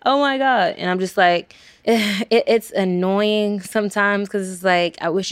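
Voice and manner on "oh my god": a starstruck stranger gushing; gushing fan. Retold or imitated. A fan gushing at the famous student, much higher. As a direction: gasp it out higher, like an amazed fan. Fan reacting to her story.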